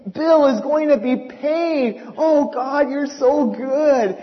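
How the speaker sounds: slow, drawn-out loud praising; joyful, stretched-out worship; fervent praise. Retold or imitated. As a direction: pour out thanks to God. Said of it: "You never heard such praises".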